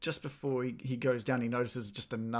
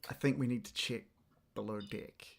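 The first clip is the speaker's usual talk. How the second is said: softer, hushed words meant only for one companion; hushed aside; 6 dB quieter than usual. Acted. Finn leans to Alst and urges checking below deck, hushed. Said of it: "leans over to Alst and whispers".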